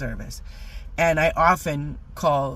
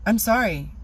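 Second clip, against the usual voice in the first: gasp; 5 semitones higher, 4 dB louder than usual. Retold or imitated. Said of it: "I looked at him and I go".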